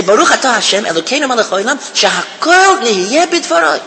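blessing recited with each word distinct; deliberate, fully pronounced blessing. Shown as a demonstration. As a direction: give every word of "Baruch atah Hashem" its place. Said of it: "Just say word for word".

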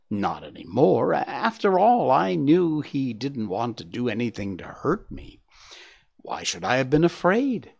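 lightly voiced boastful young deer; proud youngster showing off his tale; Gobo the young deer. Gobo boasts about man.

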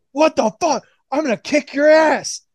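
a touch of cartoon outrage; mock outraged Jericho. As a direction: sputter like a wrestler who just got punched in the dick. Jericho reacting to a low blow.

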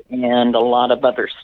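talking through hiccups; breaking off on a hiccup. Real, not acted. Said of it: "I'm getting the hiccups".

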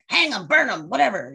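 bloodthirsty villager calling for hanging; scary voice. Retold or imitated. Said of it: "That was a really scary voice".

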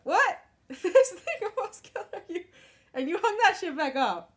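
loud, high-pitched disbelief breaking into laughter; incredulous outburst. Real, not acted. Cohost aghast the deadly thing was rehung, laughing incredulously. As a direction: react as if you can't believe it, laughing. Incredulous reaction to retold choice.

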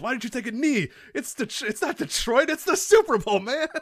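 imitating the announcer. Friend imitating the announcer's Super Bowl rant, squealing. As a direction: wail it at the quarterback. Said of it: "he goes".

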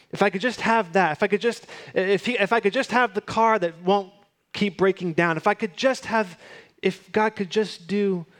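lightly voiced pleading thought; wishful thinking. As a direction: act out someone wishing again and again. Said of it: "find yourself thinking".

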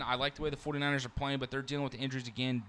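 rushed sports analysis; talking really fast. Real, not acted. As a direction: rattle through it quickly. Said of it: "I'm talking really fast".

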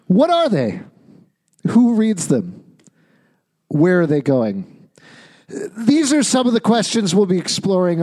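booming mock host intro; talk show host. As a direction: announce it like a late-night host.

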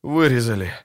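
ordinary delivery, nothing marked

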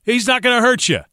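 high, upbeat imitation of a TV color commentator; hammed-up booth announcer voice; mock commentator. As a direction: play the cheerful broadcaster praising a game manager. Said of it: "They're gonna say".

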